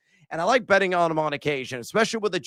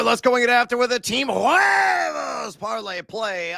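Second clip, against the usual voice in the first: hype announcement; 5 semitones higher than usual. Acted. Hyping his signature segment.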